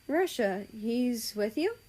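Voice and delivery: "he's with you?" slow and rising high on "you"; questioning. Acted. Injured mother asks about Russia, slow rising "he's with you?". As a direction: ask it slowly, lifting "you" into a question. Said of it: "she questions".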